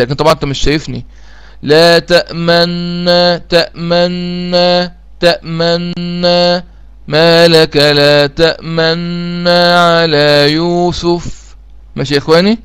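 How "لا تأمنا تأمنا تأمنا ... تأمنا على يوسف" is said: تأمنا slow chant with one doubled n and silent lip rounding; recited with ishmam. Shown as a demonstration. Teacher repeats the ishmam for students, slow chanted recitation. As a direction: intone تأمنا slowly, lips pushed forward at the n. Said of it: "أنا عملت كده".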